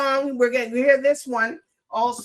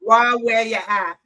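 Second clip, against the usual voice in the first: host's go at Jamaican patois pronunciation; imitated Jamaican accent; 3 dB louder than usual. Shown as a demonstration. Host trying out the artist's catchphrase, imitated Jamaican accent. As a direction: try the line in a Jamaican accent. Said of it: "that's a good accent for it too".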